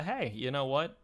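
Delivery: ordinary talk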